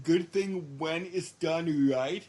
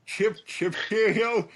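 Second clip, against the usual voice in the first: questioning mock British; 3 semitones higher, 4 dB louder than usual. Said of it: "I think it's pip".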